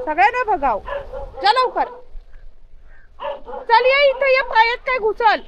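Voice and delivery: high, loud commands to a pet; excited loud shouting across the yard; yelling at the dog. Real, not acted. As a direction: shout him away from the cat and urge him on. Shouting at dog near cats, dogs.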